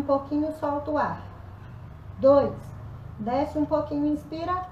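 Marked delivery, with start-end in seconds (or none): 2.2-2.5 loud, punchy rep count; shouted count. Real, not acted. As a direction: bark the number to push them.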